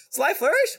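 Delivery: high, shouted Sly Flourish with a rising question; indignant shout; mock outrage. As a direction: yell the name in mock disbelief. Reading a name as a joke.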